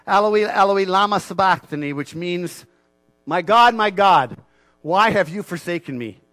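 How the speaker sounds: Jesus on the cross crying loudly to God; loud cry of anguish. A narrator's reading. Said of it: "cried out in a loud voice".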